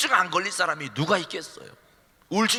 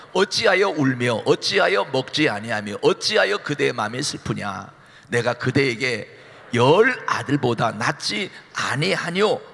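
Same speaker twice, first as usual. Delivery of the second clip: scripture reading; 6 semitones lower than usual. Acted. Husband Elkanah's words read.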